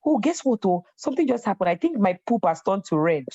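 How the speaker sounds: high, bubbly gossip; excited chatter. Retold or imitated. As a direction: share silly news eagerly. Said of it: "I'll pick up like".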